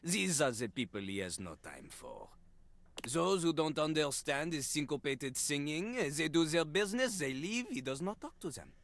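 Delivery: a hint of a disdainful French rapper; French accent. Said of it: "doing a French accent".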